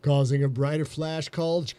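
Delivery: sexy voice. Pretend. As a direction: purr it out slowly and seductively. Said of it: "We're gonna do this in a sexy voice".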